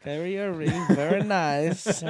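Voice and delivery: put-on Borat accent. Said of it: "He sounds more like Borat".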